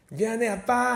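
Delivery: put-on high, pleading child's apology; imitated scared little girl. Niece apologizing to an angry dad, high timid pleading. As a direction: mimic a timid child, stretching it sweetly. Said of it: "겁먹은 목소리로".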